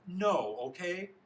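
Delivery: high, loud exasperated snap; scream. A narrator's reading. Boy answers Polly's question at dinner, screaming. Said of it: "He screams at her".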